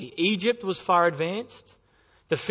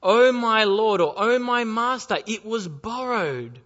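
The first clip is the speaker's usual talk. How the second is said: loud, higher cry of despair; anguished cry; 5 semitones higher, 5 dB louder, slower than usual. Acted. Prophet crying out to Elisha over the lost axe head. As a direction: plead in anguish over the loss. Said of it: "He cried out".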